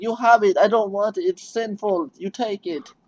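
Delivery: hammed-up horrified old clerk; mock pious clerk. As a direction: hand it back as if it burns. Clerk rejecting sinful record.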